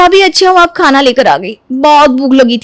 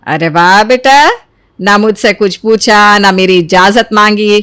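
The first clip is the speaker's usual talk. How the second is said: slow, dry mock praise; sarcastic; 4 semitones lower, slower than usual. Mother sarcastically scolding her daughter.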